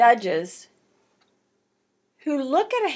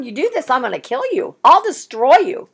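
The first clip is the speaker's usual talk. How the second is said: God's warning; 4 dB louder than usual. Retold or imitated. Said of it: "this is God's words".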